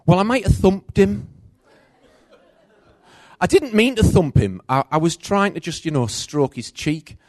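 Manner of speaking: put-on high, loud excuse-making little girl; little girl confessing she thumped her baby brother; sheepish child. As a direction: wheedle like a caught four-year-old.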